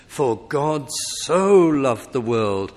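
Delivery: emphasis landing on "so" as the strongest word; stress on "so". Shown as a demonstration. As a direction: stress SO in "God so loved". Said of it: "the emphasis should be put on the so".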